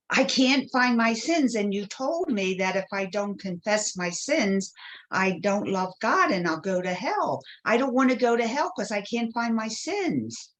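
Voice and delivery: mock tearful pleading, rising in pitch; imitated distraught child. Child pleads with nun about going to hell, plaintive. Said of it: "I start crying, like I'm crying really hard".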